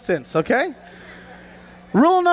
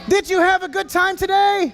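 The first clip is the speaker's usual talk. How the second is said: shouted again with more energy; louder retake; 4 semitones higher than usual. Real, not acted. Host repeating his question to the kids, shouted. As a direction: call it out to the whole arena. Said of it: "repeated louder for the crowd".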